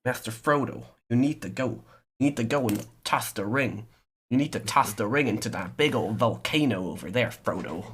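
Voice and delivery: put-on casual American accent, earnest urging; American Aragorn. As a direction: play a ranger as an American. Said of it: "like, Am-, an American Aragorn or something".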